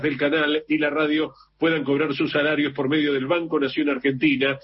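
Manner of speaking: steady, even radio newsreader delivery; news read. Acted. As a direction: read out the bulletin evenly and formally. Reads a news item on air. (lectura de noticias en tono informativo)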